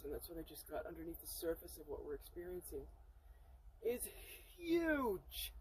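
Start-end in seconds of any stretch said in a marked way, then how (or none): 4.6-5.5 HUGE drawn out high, falling; "huge" sung out long and high in awe; awed emphasis. Real, not acted. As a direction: stretch "huge" from a high pitch to show immense size. Awed at the iceberg's hidden size.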